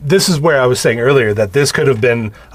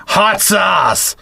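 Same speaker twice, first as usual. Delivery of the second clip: higher-pitched, emphatic repeat of an order; insistent demand; 6 semitones higher than usual. Retold or imitated. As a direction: act out a pushy customer demanding it. Ken impatiently repeats his demand to waitress.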